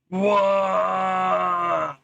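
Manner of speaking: surprised whoa. Real, not acted. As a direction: caught off guard, blurt it out. Sudden exclamation mid-lore.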